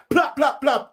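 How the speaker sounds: quick high plap plap gunshot noises; imitated gunshots. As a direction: mimic gunfire with the mouth. Gunshots mimicked mid rant.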